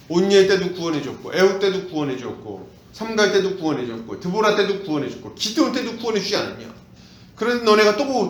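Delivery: sarcastic scolding God, rising heat; mock God's cold scorn at his people; cynical God. Preacher voicing God's sarcastic rebuke to Israel. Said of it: "하나님은 매우 냉소적으로, 어, 말씀을 하세요".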